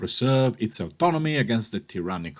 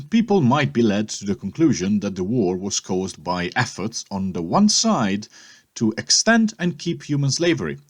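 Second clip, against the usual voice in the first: put-on raised, louder oratory as Jefferson Davis in a British accent; 3 semitones higher, 4 dB louder than usual. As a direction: declaim like a stately British statesman, pitched up and loud. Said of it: "this sort of more British accent".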